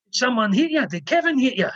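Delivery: fretful mum pressing for answers; worried mother. Retold or imitated. Mother asking the dazed James who hit him, high and worried.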